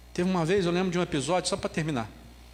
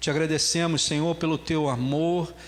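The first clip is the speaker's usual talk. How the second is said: earnest congregational prayer, lower and steady; 3 semitones lower than usual. Acted. Preacher prays to the Lord for the congregation, reverent. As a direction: pray over the church with reverence.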